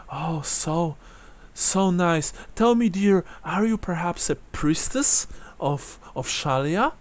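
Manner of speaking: lightly voiced old lady, gently inquiring; a hint of elderly lilt; kindly old woman. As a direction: ask sweetly as an old widow. Game master voices old woman.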